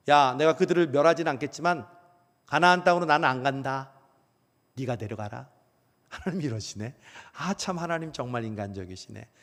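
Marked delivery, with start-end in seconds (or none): 0.1-5.5 God voiced like a pouting, sulky parent; sulking parent. Preacher voicing God to the congregation like a sulking parent. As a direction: huff it out like a miffed parent. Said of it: "삐진 부모님처럼".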